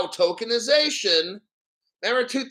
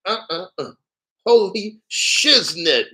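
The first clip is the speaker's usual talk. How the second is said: excited; 5 dB louder than usual. Real, not acted. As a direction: savor the shock of it. Excited exclamation at the document.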